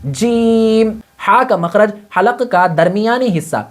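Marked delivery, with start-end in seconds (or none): 0.0-1.0 جیم said with the mid tongue on the palate; letter sound demo. Shown as a demonstration. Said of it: "اس کو لگا کر کہنا ہے جیم". (زبان کا بیچ تالو سے لگا کر جیم)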